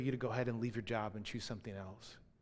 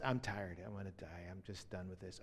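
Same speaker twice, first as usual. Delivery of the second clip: weary mother; 3 semitones lower, 6 dB quieter than usual. Retold or imitated. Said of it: "she says".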